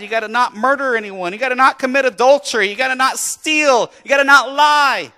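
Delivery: loud, high commanding list; preaching Jesus' words. Retold or imitated. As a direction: lay down the rules hard and loud. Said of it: "And so Jesus said".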